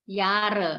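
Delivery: "Jahre" with a lengthened A and silent H; long vowel. Shown as a demonstration. Teacher correcting learner's German, long A in "Jahre". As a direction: stretch the first vowel of "Jahre". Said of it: "vokal yang di depannya dibaca sedikit panjang".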